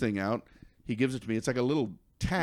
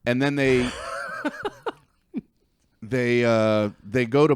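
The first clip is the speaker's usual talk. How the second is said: laughing. Real, not acted. Laughing while retelling.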